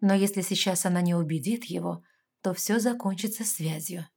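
usual speaking voice

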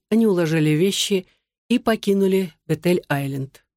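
plain reading voice

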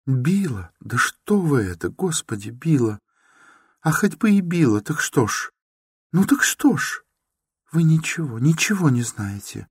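put-on high, anguished girlish voice; a young woman near tears defending her stepmother; distraught Sonya. A narrator's reading.

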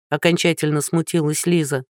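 plain reading voice

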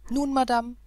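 spring up and confront her; vehement. Acted. Prince leaping from the sofa to confront the governess, loud. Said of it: "mit einem heftigen Sprunge".

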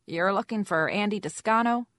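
high, loud squeaky caller. A narrator's reading. Caller questions the investigator about Andy, squeaky voice. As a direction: pitch it up and push it. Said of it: "a Jane with a squeaky voice said".

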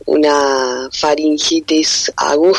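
hoarse, breaking into a whisper; voice from beyond the grave. Real, not acted. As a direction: sore throat, voice half gone. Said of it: "Perdón esta voz de ultratumba".

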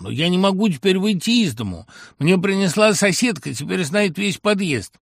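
high, loud wail of a frightened mother; panicked mother. Acted. Mother on the phone lamenting the neighbours know, high loud wail. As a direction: voice her as a mother beside herself.

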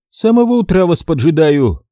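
высокий голос брюнетки, с укором; упрекни за опоздание высоким голосом; укоризненно. Acted. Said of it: "укоризненно заявила статная брюнетка". (брюнетка укоряет мастера высоким голосом)

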